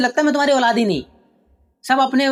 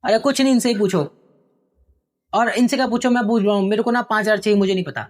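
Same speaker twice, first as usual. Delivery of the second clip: angry son; 3 semitones higher than usual. Acted. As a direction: rant about being stuck at home. Son yelling at father. (पिता पर भड़कता बेटा)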